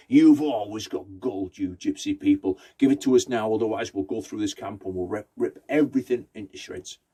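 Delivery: king's man threatening the travellers; menacing demand. Acted. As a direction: bark the demand like a soldier. King's men demand the gold.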